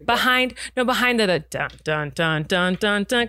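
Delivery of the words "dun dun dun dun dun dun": sung-out "dun" for each plucked note; rhythmic vocal guitar imitation; imitated guitar line. Shown as a demonstration. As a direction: voice a plodding instrumental riff in even beats. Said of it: "your voice and the guitar in unison".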